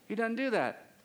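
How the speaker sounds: slight accidental Southern twang; Southern accent. Real, not acted. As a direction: slip lightly into a Southern accent. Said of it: "I said that like a South, Southern accent".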